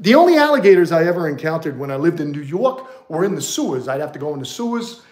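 put-on joking New York accent. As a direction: play a croc hunter from New York, in the accent. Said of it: "I had a New York accent".

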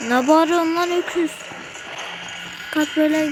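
irritated loud holler; angry shout. Real, not acted. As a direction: snap back at the screaming monster. Yelling back at game monster.

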